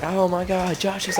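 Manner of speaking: high, loud, gossipy cry; loud gasp of shock. Retold or imitated. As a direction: blurt it out for the whole class to hear. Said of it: "Really, really loudly".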